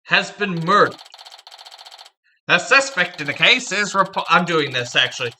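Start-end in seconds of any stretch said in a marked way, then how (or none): 0.0-1.0 put-on brisk, louder old-time newsreel announcer; hammed-up thirties radio newsman; 1930s radio announcer. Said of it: "nineteen thirties, uh, radio announcer voice". 2.5-4.2 put-on old-time radio newsman, cut off partway; 1930s radio announcer. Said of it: "nineteen thirties, uh, radio announcer voice".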